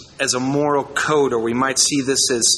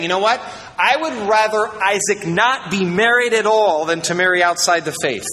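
emphatic, raised-pitch declaration; emfatisch; 6 semitones higher than usual. Retold or imitated. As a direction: put your foot down as you quote him. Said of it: "really rightfully emphatic about this issue".

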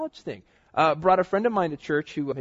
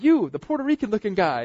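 higher, louder, with a laugh; calling out; 7 semitones higher, 6 dB louder than usual. Retold or imitated. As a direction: point him out to the crowd, amused. Pastor singling him out.

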